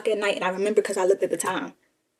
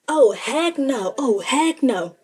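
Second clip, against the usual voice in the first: mild mock refusal; 3 semitones higher, much slower than usual. Wife refuses after hearing age.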